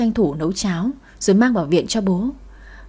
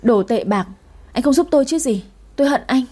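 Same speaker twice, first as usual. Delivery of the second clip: mild bitter cry; 4 semitones higher than usual. Acted. Blocked woman cries out bitterly at ex, mock scream. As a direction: cry out in resentment. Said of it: "uất ức gào lên".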